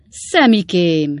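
drawn-out loud call of his son's name; cry out. Acted. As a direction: call out slowly and loudly, surprised. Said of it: "kiáltott fel idős Weller úr".

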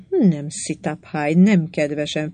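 each word of "Nem, Sitaphai, nem kedvesen" set apart and weighted, slowly; slow, every word underlined. A narrator's reading. Tarvin firmly denying the queen, slowly, each word stressed. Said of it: "lassan, minden szót aláhúzva".

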